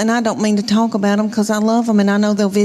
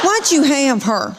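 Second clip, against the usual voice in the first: slow, higher mock sibling grievance; complaining daughter; 4 semitones higher than usual. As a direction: lightly imitate a daughter resenting her sister. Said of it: "she says something like this".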